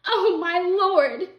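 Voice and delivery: high, loud, drawn-out wail of shock; horrified cry. A narrator's reading. Missus Griffin sees the dead cat, horrified cry. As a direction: cry out in dismay, stretching the words. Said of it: "Missus Griffin cried".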